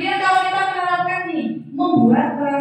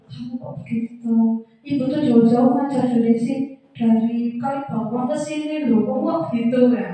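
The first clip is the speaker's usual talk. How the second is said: plaintive tone; 2 semitones lower than usual. Shown as a demonstration. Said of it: "agak melas gitu ya".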